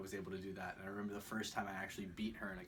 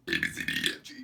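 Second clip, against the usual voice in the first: loud belched alphabet; burping the words; 13 dB louder, much faster than usual. Shown as a demonstration. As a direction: belch out each letter. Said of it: "I can burp my A B Cs".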